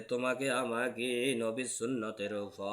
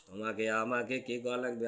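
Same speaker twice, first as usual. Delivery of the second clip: soft rhetorical question; 2 semitones lower, 6 dB quieter than usual. Shown as a demonstration. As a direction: ask it quietly to the crowd. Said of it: "তাহলে তোমাকে আমাকে কি করা লাগবে?".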